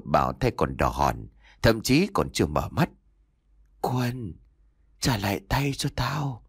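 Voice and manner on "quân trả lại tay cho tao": ferocious ghost growl. A narrator's reading. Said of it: "vừa nói vừa gầm rú đầy hung tợn".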